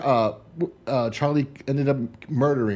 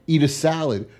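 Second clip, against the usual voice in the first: rising to a louder, higher, slowed mock tirade; wife berating her husband, growing louder; building mock rant; 5 semitones higher, 3 dB louder than usual. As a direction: pile on the insults louder each time.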